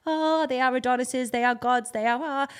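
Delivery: mock awe. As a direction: gush as if beholding gods, drawing out the "oh". Mimics awestruck TV viewers.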